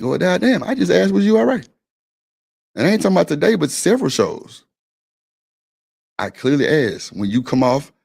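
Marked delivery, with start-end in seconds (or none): 0.0-1.7 a playful, incredulous replay of the exchange; mock indignant. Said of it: "I'm like".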